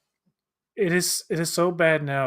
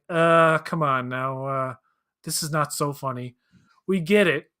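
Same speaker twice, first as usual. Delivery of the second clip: slow, drawn-out groan of disapproval; weary disapproval. Retold or imitated. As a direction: groan at a joke going too far. Imitated audience groaning.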